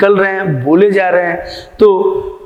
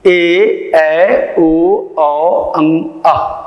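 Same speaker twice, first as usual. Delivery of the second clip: slow chanted vowel list; reciting vowels; much slower than usual. Shown as a demonstration. Teacher reciting Hindi vowels to students, slow classroom recitation. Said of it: "जैसे".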